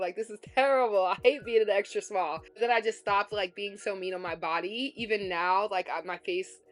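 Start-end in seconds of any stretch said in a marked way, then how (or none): 0.0-2.4 exasperated rant. Retold or imitated. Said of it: "I'm like".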